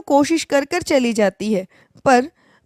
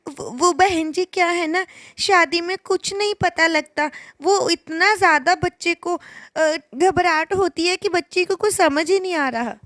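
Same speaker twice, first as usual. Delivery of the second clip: put-on higher, hesitant girlish voice; answering the mother-in-law meekly, a bit higher; nervous bride; 5 semitones higher than usual. (सास से सहमी, ऊँची आवाज़ में बात करती बहू)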